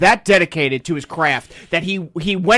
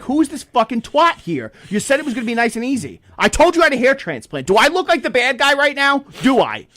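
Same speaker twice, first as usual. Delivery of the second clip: much higher, louder outraged pleading; indignant complaint; 9 semitones higher, 4 dB louder than usual. Retold or imitated. Traveler complains to the nice agent, high and indignant. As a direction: demand fairness, pitched way up.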